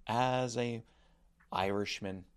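half-hearted impression of a colleague introducing himself; Matt Wright. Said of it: "That was actually me impersonating Matt".

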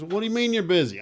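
high, loud Texas caller; Texas accent. Retold or imitated. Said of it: "I'm doing a Texas accent".

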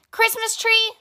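high, spluttering disbelief. A narrator's reading. Badger spluttering at Mole's request, high and indignant. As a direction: splutter it out in outrage. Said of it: "spluttered Grumpy Badger".

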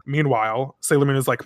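usual speaking voice

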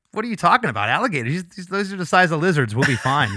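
casual mock Aussie accent; Australian accent. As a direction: shrug it off in a poor Aussie accent. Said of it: "It's my poor Australian accent".

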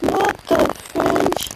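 high, slow, stunned exclamation; shocked. Real, not acted. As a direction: gasp it out in shock. Shocked reaction to shooting.

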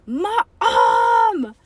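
high, loud drawn-out shout; bellow. A narrator's reading. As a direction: holler for mom in outrage. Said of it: "bellowed Nancy".

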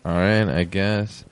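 slow, lukewarm all right; mild mock reluctance; unimpressed. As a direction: shrug it off reluctantly. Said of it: "they'll be like".

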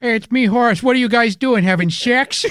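lightly goofy cartoon god; a hint of a dopey cartoon guy. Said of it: "goofy fucking voice".

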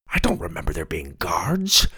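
soft hushed whisper. Acted. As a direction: whisper it so the guards can't hear. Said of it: "Grandpa whispered".

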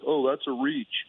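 slow, whiny mocking complaint. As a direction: whine it like a critic. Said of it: "I don't mean to do whiny voice".

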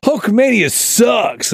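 high, stretched-out taunting call; teasing yell. Retold or imitated. Teller goading Bobby a bit later, teasing yell. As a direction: holler it high to provoke him. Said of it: "you yell out".

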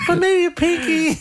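high falsetto, laughing. Shown as a demonstration. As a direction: toss it back and forth up in falsetto. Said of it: "take a falsetto second".

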